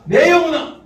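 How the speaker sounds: high ringing call; call out again. Shown as a demonstration. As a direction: lift the voice to your soul. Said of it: "한번 더 합시다".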